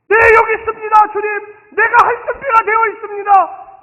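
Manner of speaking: high, loud, ready reply; eager answer to God. Pretend. Believer answering God's call, eager. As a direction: answer like you can't wait to serve. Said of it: "이렇게 대답하지".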